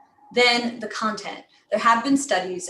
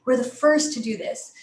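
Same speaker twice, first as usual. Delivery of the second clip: "first" punched as the key word; "first" lifted above the rest; emphasis on FIRST. Shown as a demonstration. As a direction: hit "first", then ease off on "to do this". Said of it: "Emphasize very key words".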